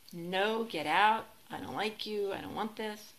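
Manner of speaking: acted firm refusal, loud at first; mock rejection. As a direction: push them away in a mock-angry outburst.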